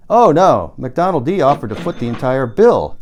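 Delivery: emphatic correction. Acted. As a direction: set the record straight forcefully.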